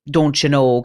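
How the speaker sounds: light mimicry of Midwestern speech; Midwest accent. Guest recalls East Coast stereotype, light Midwest accent. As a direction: toss in a stereotyped Midwest "don't you know". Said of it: "Oh, that Midwest".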